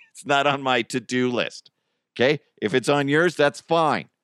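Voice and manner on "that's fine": ordinary delivery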